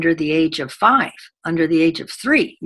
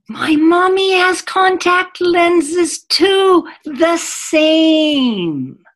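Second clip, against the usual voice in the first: put-on high, loud and slow little girl voice; delighted little girl; 12 semitones higher, 6 dB louder, much slower than usual. Trainer imitating a preschool girl matching her friend, high and slow. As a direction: sing it out like a thrilled little girl. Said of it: "the other little girl says".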